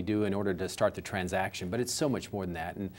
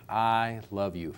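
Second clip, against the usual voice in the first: slow tender I love you; much slower than usual. Shown as a demonstration. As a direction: say it like you truly mean it. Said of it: "those same three words will have a different impact".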